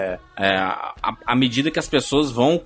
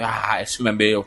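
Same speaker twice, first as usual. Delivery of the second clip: lightly acted boast ending in a laugh; low-key pretend gloat, then ha-ha-ha; mock gloating laugh; 6 semitones lower than usual. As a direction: imitate a self-satisfied director chuckling over his film. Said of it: "Dando risada".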